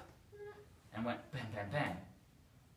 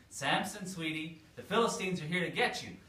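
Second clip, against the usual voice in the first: calling out alarm; 5 semitones higher, 5 dB louder than usual. Acted. Delilah calls out an alarm again.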